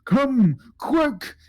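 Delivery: very high, urgent creature call; Jibba the right head. Pretend. Right head urges the adventurers along, high and urgent. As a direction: hurry them along, high-pitched. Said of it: "Jibba, the right head, goes".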